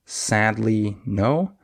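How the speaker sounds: even beats on SAD and "no", "ly" light; stress on SAD and NO. Shown as a demonstration. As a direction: demonstrate the timing: SAD-ly, NO. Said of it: "listen to the two one more time".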